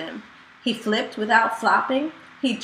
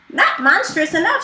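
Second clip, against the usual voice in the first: snorting; 5 semitones higher, 3 dB louder than usual. Acted. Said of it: "snorted Snuffle".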